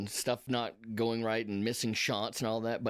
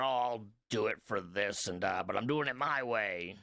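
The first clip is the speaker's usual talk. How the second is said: put-on salty old sea captain. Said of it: "the salty old sea captain back there".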